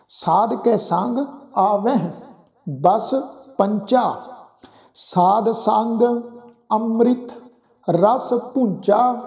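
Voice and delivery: drawn-out, measured chant of the verse; slow scripture recitation. Shown as a demonstration. Preacher reciting Gurbani to the congregation, slow and measured. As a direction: intone each word slowly and reverently. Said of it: "verse recitation resumes".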